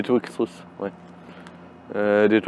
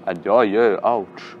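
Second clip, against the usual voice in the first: in pain; slower than usual. Real, not acted. Pain during exercise.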